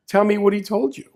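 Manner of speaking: high, laughing challenge; mock-demanding through laughter; playful laughing demand. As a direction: tease him through a laugh.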